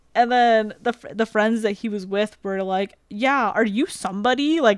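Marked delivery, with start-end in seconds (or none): 3.1-4.6 sarcastic, playful, mocking and teasing tone. Retelling how the other person's friends teased him: imitating friends mocking someone. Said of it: "mocking him".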